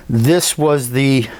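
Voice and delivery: hesitant, halting stutter. Real, not acted. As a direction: stumble over the words. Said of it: "That's why I'm, I'm stuttering here".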